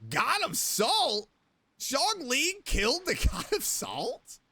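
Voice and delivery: slow, drawn-out shocked question; stunned disbelief. Real, not acted. Streamer reacting to a game reveal, slow and stunned. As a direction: let the disbelief stretch each word.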